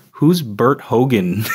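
slow, deliberate wrong name, Who's Bert Hogan; teasing mispronunciation; mispronouncing on purpose. Retold or imitated. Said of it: "I say it wrong".

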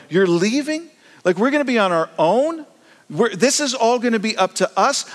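high, anxious pleading voice; panicked disciples. Retold or imitated. Disciples begging Jesus not to leave, high and anxious. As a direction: sound like scared followers left on their own.

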